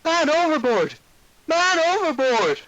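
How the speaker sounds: high, loud alarm cry from the crow's nest; man overboard shout. Acted. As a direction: yell it out to the whole ship. Deckhand calling out alarm.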